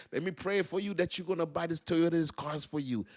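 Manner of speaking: soft, high mock prayer over a sale; hushed, pious sales pitch, played for laughs; praying car-salesman pastor. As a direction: imitate a reverend solemnly selling a car. Mimics praying pastor selling cars.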